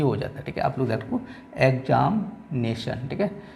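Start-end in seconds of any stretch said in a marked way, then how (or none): 1.6-3.1 एग्जामिनेशन slowly, in separated parts; broken into syllables. Shown as a demonstration. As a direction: split एग्जामिनेशन into slow chunks for counting. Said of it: "अब देखो एक, दो, तीन". (एग्जामिनेशन को धीरे-धीरे तोड़कर)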